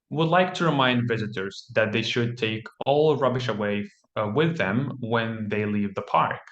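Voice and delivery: model read-aloud. Shown as a demonstration. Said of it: "you would say something similar to".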